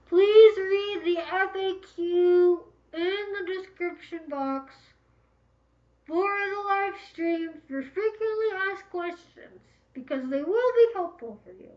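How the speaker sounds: slow, high, loud announcement through a megaphone. Shown as a demonstration. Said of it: "I'm gonna put on my megaphone voice".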